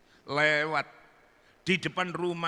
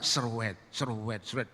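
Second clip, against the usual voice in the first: imitated unveiling sound; 6 semitones lower, 6 dB quieter than usual. Veil opened bit by bit, imitated swishing. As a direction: draw out each swish, low.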